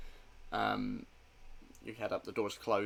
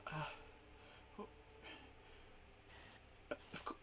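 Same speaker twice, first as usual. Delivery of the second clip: higher, rising to loud disbelief; panicked denial; 7 semitones higher, 5 dB louder, much slower than usual. Acted. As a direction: desperately insist he's wrong.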